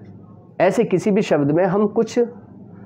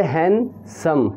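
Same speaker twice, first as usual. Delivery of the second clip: split into syllables; much slower than usual. Shown as a demonstration. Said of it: "दो syllable में हम बोल रहे हैं".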